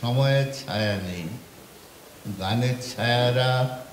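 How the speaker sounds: lilting verse recital, falling at stanza ends; poetry recitation. Acted. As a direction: recite the poem with pauses after each line. Recites second poem. (ছন্দে ছন্দে কবিতা আবৃত্তি)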